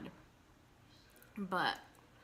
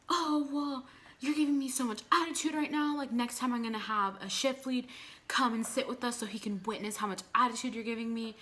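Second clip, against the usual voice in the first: manager's rude tone; 4 semitones higher than usual. Retold or imitated. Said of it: "her tone of voice".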